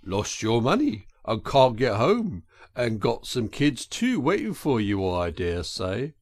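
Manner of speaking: lightly voiced working-man driver; a hint of a driver mulling it over; sympathetic engine driver. Driver sums up the washerwoman's plight, reflectively.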